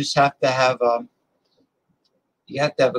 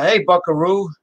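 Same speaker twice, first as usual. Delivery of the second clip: put-on Southern accent; 4 semitones higher than usual. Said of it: "with the Southern accent".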